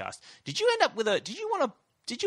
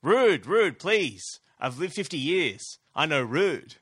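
friendly shopkeeper; 4 semitones higher, 5 dB louder, slower than usual. Retold or imitated. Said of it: "And he goes".

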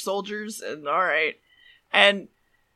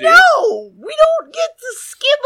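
higher and louder, laughing yell of protest; 8 dB louder, slower than usual. Real, not acted. Protesting partner skipping the episode, laughing yell. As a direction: shout him down, half laughing.

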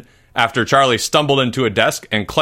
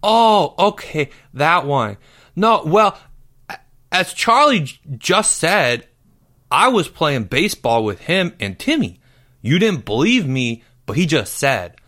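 put-on higher, stammering boy voice; flustered schoolboy Porge; 6 semitones higher than usual. A narrator's reading. Porge tries to get out of questioning, flustered. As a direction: babble excuses to get away. Porge babbles excuses to teacher.

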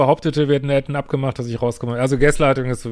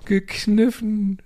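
slow, high, disbelieving; incredulous echo; 8 semitones higher, much slower than usual. Real, not acted. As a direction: repeat the word in shock. Ungläubige Wiederholung. (ungläubig gedehnt, hoch)

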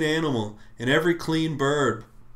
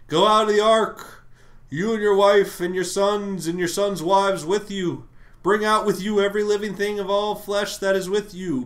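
booming God voice; 5 semitones higher, 4 dB louder than usual. Acted. God's command read aloud.

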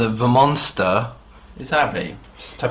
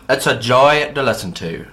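hammed-up Northern Irish accent; Ulster accent; 3 semitones higher, 4 dB louder than usual. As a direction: read the letter in an attempted Ulster accent. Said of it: "I'll try just Ulster".

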